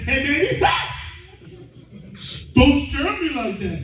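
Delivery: comic high shriek at being startled; mock scare, voice leaping way up; yelp, then scold in a high voice; high-pitched frightened husband. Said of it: "some of them got a high pitch".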